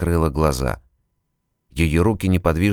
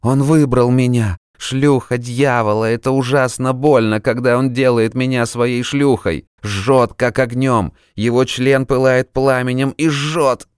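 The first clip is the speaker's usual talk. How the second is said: high, loud anguished cries; hysterical screaming; 7 semitones higher, 4 dB louder than usual. Acted. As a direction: scream it out in terror.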